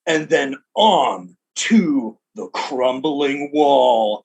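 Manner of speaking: lightly voiced slow announcer. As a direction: tease the course ahead. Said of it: "the announcer just says".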